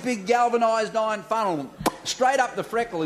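normal talking voice

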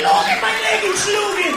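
high, shouted fake German; loud cod-German bark; mock German. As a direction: yell German-sounding gibberish. Mock German inside the tirade.

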